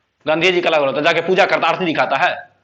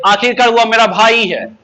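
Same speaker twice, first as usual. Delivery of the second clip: slow dictation; 2 semitones higher, 4 dB louder than usual. Shown as a demonstration. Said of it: "एक बार बोलो, क्या बोलेंगे?".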